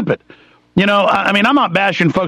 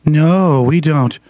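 mock soft NPR voice. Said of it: "let me talk to you like this".

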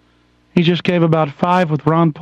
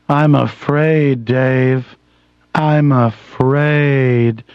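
HAL impression; 4 semitones lower, much slower than usual.

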